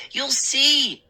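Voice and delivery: high, urgent assurance; begging. Acted. Boy begging doubtful father, pleading. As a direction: press him to believe you. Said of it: "I begged".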